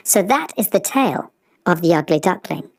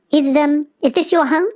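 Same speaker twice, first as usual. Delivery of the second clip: hesitant swan; 8 semitones higher than usual. Acted. Swan asks Honk, hesitant.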